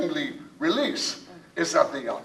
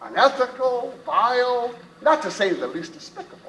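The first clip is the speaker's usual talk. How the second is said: indignant protest; 6 semitones higher, 4 dB louder than usual. Acted. Captain forbids harming a woman.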